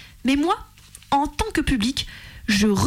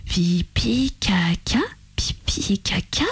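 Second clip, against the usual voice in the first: murmuring; much slower than usual. Retold or imitated. Woman walking home still shocked, murmuring to herself. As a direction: mutter it under your breath in disbelief. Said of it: "en marchant en murmurant".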